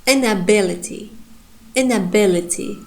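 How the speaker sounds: inability stressed on the bi; crisp model of inability's stress; demonstrating word stress. Shown as a demonstration. Teacher models stress for students, deliberate. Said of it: "I'm pronouncing primary stress".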